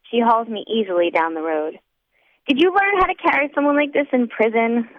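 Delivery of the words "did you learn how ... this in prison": put-on drunk teasing. A narrator's reading. Drunk narrator teases.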